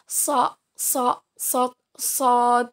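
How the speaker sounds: careful, separated repeats of a heavy "so"; emphatic Arabic shad. Shown as a demonstration. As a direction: demonstrate "so" as distinct from a light sin. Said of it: "berbeda dengan sin".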